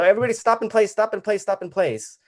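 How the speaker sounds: high-pitched director halting the room; retold calling out. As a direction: call a halt over the commotion. Director halting the gobbling group.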